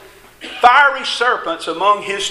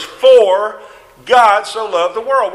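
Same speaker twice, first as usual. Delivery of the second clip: "For" set apart, louder, then a pause; stress on "For"; 4 dB louder, slower than usual. Shown as a demonstration. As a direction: punch "For" and hold before going on. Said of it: "start out with the first word".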